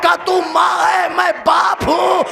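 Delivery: high, loud wailing that climbs to a cry; a mourning reciter's loud, high keening plea; rising lament cry. Acted. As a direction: build the mother's plea into a wail. Climax of the dialogue lament.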